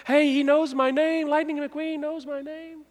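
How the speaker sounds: high, slow, thrilled exclamation; excited fan. Retold or imitated. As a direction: gush like a starstruck kid. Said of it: "You remember Lightning McQueen".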